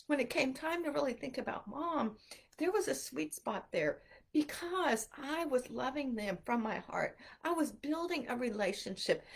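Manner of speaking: holding back tears. Real, not acted. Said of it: "I didn't really mean to start crying".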